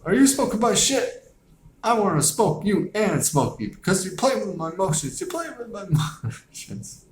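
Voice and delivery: squeaky, strained voice, pitch way up; high-pitched stoned rant. Retold or imitated. Retelling the movie, Craig's stoned rant in a squeaky voice. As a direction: play the paranoid stoner accusing his friend, high and whiny. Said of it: "He's like".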